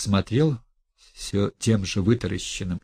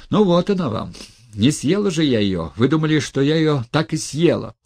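high, loud and sarcastic; indignant outburst; 6 semitones higher, 5 dB louder than usual. Acted. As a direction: fling it at him indignantly. Sarcastic outburst presenting her.

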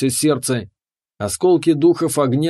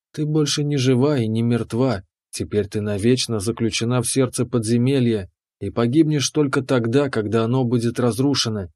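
calm keeper. Acted. Keeper explains.

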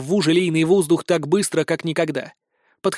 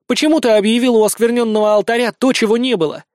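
fast, higher accusing demand; 6 semitones higher, 5 dB louder, faster than usual. A narrator's reading. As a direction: confront him in front of everyone. Daughter accuses father publicly.

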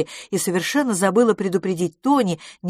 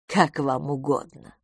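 slow, easygoing agreement; good-natured; 3 semitones lower, slower than usual. A narrator's reading. Miss Pettigrew gives in to riddles, good-natured. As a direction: concede slowly and amiably. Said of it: "сказала она добродушно".

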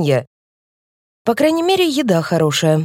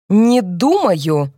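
determined repeat; much slower than usual. A narrator's reading. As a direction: lay the words down like a final verdict. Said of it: "повторяет Эльза с решительным видом".

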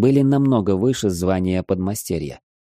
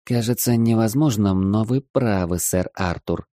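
sultry woman; 2 semitones higher than usual. Acted. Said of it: "томным голосом проговорила женщина".

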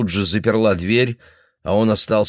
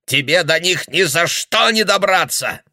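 put-on paranoid old man; 10 semitones higher, 3 dB louder than usual.

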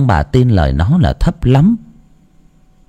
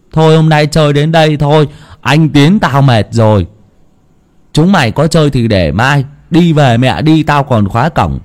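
put-on boy calling out; 5 semitones higher than usual. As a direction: call it a night to the other kids. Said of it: "giọng của thằng Đạt lại vang lên".

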